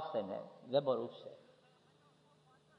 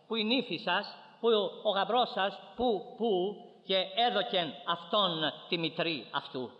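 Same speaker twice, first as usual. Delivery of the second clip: raised, pressing appeal to the congregation; urgent preaching; 6 semitones higher than usual. Real, not acted. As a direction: plead insistently with the listeners, phrase upon phrase. Preaches at full force.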